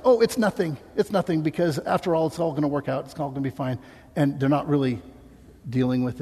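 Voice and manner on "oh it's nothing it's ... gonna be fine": mock dismissive. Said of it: "just act like".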